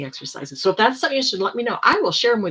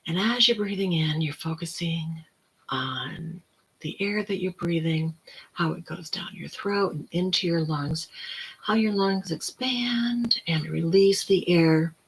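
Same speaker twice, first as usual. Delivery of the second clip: slow, softer whispered guidance; guided breathing whisper; 3 dB quieter than usual. Shown as a demonstration. Guiding viewers through breathing, in a slow whisper.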